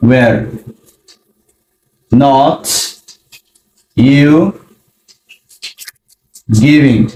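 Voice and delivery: long pauses between single words; slow word by word. Shown as a demonstration. Teacher showing the parts of the question, word by word. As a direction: place each word deliberately. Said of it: "was এর use করব".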